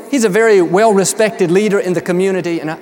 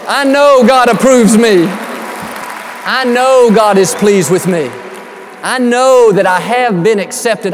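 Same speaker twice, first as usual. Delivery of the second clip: loud, emphatic confession of faith; ringing preacher's declaration; bold declaration; 4 dB louder than usual. Acted. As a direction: proclaim it boldly, leaning on know.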